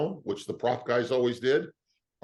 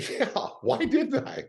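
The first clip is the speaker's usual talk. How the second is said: laughing; 3 dB louder, slower than usual. Real, not acted. Laughing at question.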